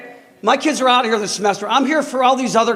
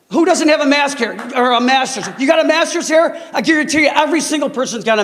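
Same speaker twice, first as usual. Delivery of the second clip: angry; 4 semitones higher than usual. Real, not acted. Angry parent at school board.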